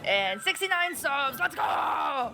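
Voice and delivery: lightly imitated gaming-video host intro; Markiplier. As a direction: play a YouTuber opening, building to a cheer. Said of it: "my name is Markiplier".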